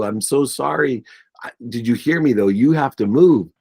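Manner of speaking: a mild, high-pitched retold plea; retold tearful apology. Son breaking bad news to mom, retold tearful plea. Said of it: "And I'm bawling".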